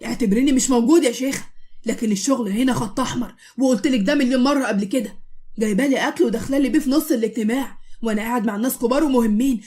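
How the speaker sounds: angry, loud scolding; yelling at her. Acted. Husband scolds his wife to her face, angry yelling. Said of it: "عمال يزعق في وشها".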